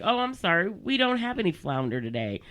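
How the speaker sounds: bright, peppy phone-agent tone; chirpy call-center politeness; customer service voice. Retold or imitated. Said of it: "my customer service voice on".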